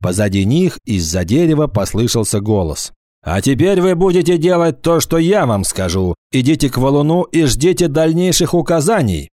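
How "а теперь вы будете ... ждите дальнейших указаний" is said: high, stern command from hiding; commanding villain. Acted. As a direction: order them about coldly. Urthona commands from behind trees.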